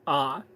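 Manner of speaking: "ah" as in father; a single open "ah"; open "ah" sound. Shown as a demonstration. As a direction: say "ah" with a broad open vowel. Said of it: "You're not saying".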